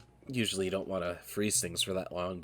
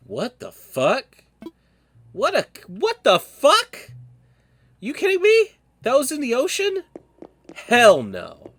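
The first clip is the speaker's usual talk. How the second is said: much higher, loud shrieks of disgust; horrified screaming; 11 dB louder, slower than usual. Real, not acted. Seeing a creepy ocean fossil, shrieking in horrified disbelief. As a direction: scream in real horror at the thing.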